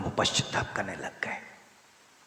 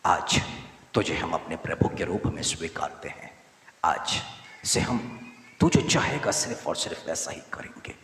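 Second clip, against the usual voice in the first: fervent prayer, said for the people to repeat; spoken prayer of surrender; leading a prayer. Acted. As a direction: pray it aloud, leading the room. Leads congregation in prayer.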